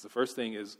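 usual speaking voice

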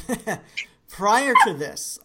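laughing through the words; slow, giggling repeat. Real, not acted. Laughs while repeating phrase.

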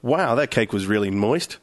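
slow cheeky innuendo; suggestive ladies. Shown as a demonstration. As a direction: tack on a sleazy wink. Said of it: "if you had gone like this".

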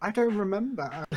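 playful denial. Pretend. Joking about forgetting players.

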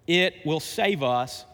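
slow line with weight on "it"; emphasize the word "it", drawing the line out; stress on IT. Real, not acted. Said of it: "I emphasize the word "it".

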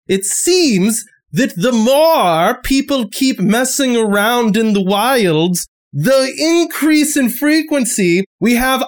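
exasperated sheriff explaining pointedly; impatient lawman, drawing out key phrases; frustrated sheriff. Acted. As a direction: lecture them as if they won't listen.

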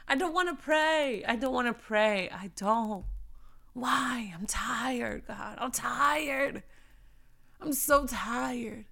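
tired, whining complaint to God; mock weary protest; whiny reluctance. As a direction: whine like a worn-out kid, drawing out the last words. Acts out not wanting to pray.

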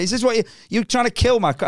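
shouted high at the Chortle reviewer, hammed up; mock furious rant. Comic on stage yelling at the review site, mock fury. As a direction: rip into the website like a wounded comic.

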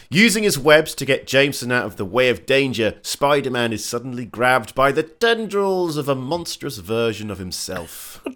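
measured, emphatic read-aloud recap; dramatic plot-summary read; synopsis narration. A narrator's reading. Reads episode synopsis aloud.

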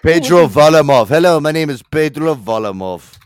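hammed-up Mexican Russian accent with the name said loud. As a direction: play a man from Mexico and Russia at once, hammy. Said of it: "do a Mexican Russian impression".

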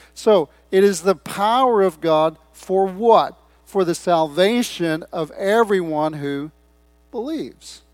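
loud, slow, punched key words; emphatic preaching. Real, not acted. Preacher declaring the gospel's power to congregation, emphatic preaching. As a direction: preach it with weight, stretching "power" and "every".

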